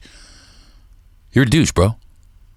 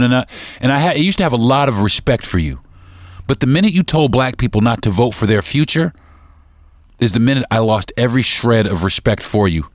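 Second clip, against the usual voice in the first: normal talking voice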